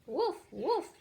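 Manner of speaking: high, loud mock barking; barking like a dog. Cat Jack barks like a dog at the birds. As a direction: bark to frighten the birds. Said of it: "he cried".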